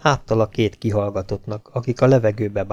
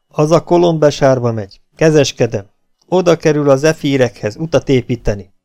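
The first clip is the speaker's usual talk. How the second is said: a hint of a chummy officer, a bit louder; falsely friendly captain; 3 semitones higher, 4 dB louder than usual. Captain coaxing the prisoner after hitting him, mock-friendly. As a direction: win him over with fake warmth.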